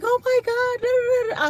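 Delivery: high mock panic trailing into babble; imitated freak-out. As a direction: imitate a coworker flapping in a squeal. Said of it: "She was freaking out on Friday".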